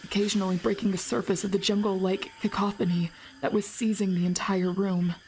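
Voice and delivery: low, measured narration; story narration. A narrator's reading. Streamer reading the game's jungle scene aloud, low narration.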